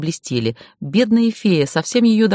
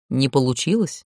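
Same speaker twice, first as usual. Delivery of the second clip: almost tender; 3 semitones lower than usual. A narrator's reading. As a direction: ask it nearly tenderly. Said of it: "почти ласково спросил Ворон".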